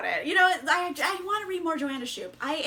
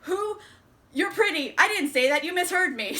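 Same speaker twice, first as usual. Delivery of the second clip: mock flustered man, pitched up; playfully befuddled, higher and a bit louder; 5 semitones higher, 4 dB louder than usual. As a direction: imitate someone thrown off and awkwardly backtracking. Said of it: "she just befuddles him".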